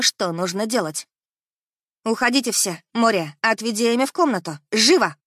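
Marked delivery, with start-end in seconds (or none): 2.0-5.2 sharp commanding shout; barking orders. Acted. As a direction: bark the orders at the servants. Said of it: "Рявкнула на прислугу".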